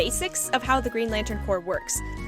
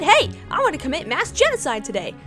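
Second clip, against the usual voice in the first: lightly voiced chirpy villain, a little higher; mock-cheerful villain; 4 semitones higher, 3 dB louder than usual. Villains deciding on genocide today, mock cheerful. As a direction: toss it off like a fun plan.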